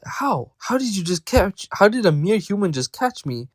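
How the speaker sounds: high-pitched, mildly acted astonishment; baffled disbelief, pitched well up; astonished. Snake asking the human who caught it, astonished.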